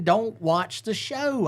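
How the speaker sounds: high, slow, teasing warning; mock warning. Host retells telling Ronnie, teasing and high-pitched. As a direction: play the sly friend warning him off, high and drawn out. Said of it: "I told him".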